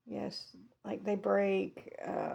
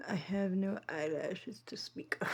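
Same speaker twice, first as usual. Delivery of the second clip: soft breathy aside; whispering; 4 dB quieter than usual. Real, not acted. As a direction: whisper it close to the mic. Whispered aside about filter.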